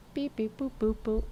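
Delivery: quiet little robotic beep-boops; idle mock machine noises; computer beeps. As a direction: softly imitate a computer beeping. Imitates computer noises while waiting.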